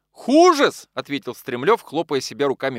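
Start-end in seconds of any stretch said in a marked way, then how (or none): 0.1-0.9 much higher, loud outraged cry; angry yelp. Acted. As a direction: spit it back at the rival, shrieking. Стремлёв кричит в ссоре.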